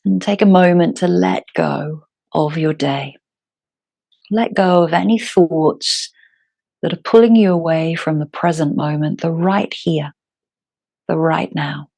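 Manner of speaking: calm, unhurried yoga teacher with long pauses; guided meditation. Acted. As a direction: guide them gently into their breath, phrase by phrase.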